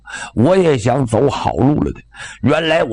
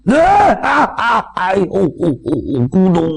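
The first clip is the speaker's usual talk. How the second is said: high crying yelp fading to whimpers; terrified wail; 5 semitones higher than usual. Acted. Cook under the sword at his neck collapses, terrified wailing. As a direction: break down in panicked cries.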